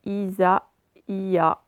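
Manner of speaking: "Isa, Ia" spoken in separate beats; split syllables. Shown as a demonstration. Teacher to pupils splitting the name: syllable by syllable. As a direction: pause between "Isa" and "Ia". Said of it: "séparer le I en deux".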